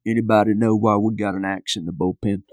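lightly voiced coach with an underbite, jaw pushed forward; a hint of a lazy underbite mumble from under his hat. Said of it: "And he had an underbite".

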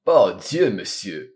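exclamation. Acted. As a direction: exclaim with delight. Athos exclaims pleased.

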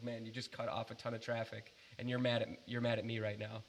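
reasoning in an everyday talking voice; retold calm remonstrance; calm, conversational. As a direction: keep it level, as in ordinary conversation. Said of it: "talking like you and I are talking right now".

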